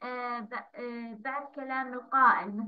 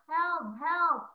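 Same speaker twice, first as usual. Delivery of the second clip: mild mock yell; 4 semitones higher than usual. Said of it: "فجأة صارت تصرخ".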